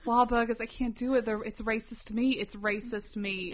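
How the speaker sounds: drawn-out New England complaint; mock New England accent. Continues the wife bit.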